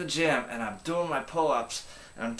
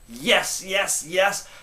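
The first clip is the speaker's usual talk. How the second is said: quick, punchy "Yes, yes, yes" pitched up; pumped yes; 5 semitones higher, 5 dB louder, much slower than usual. Shown as a demonstration. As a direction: fire off each yes. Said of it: "closing demo of trigger words".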